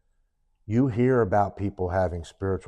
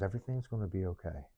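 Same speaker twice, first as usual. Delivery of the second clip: soft, quick, gentle reassurance; loving, calming; 9 dB quieter, faster than usual. Retold or imitated. Woman's voice comforting him at the airport, loving and calm. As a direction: reassure softly, like a guardian. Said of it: "It was very loving".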